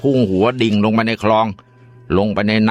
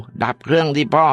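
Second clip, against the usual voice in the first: put-on storyteller's version of a boy pleading with Dad; alarmed son; 6 semitones higher than usual. A narrator's reading. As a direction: draw out the plea, pitched high. Son urging father as car careers.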